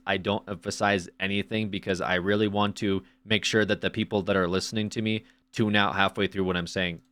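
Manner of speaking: sarcastic deadpan monotone; flat monotone on purpose, no emphasis. Pretend. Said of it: "I talk in a monotone, uh, voice".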